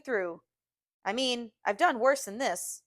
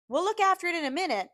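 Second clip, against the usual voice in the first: reassuring voice; 9 semitones higher, 3 dB louder, faster than usual. A narrator's reading. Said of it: "I say in that reassuring voice".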